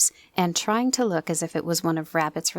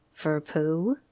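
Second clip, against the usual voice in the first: Eeyore's gloomy voice. Acted. Eeyore's speech.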